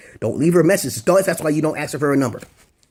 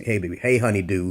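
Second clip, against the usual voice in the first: smooth line; 4 semitones lower than usual. Shown as a demonstration. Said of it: "You can say".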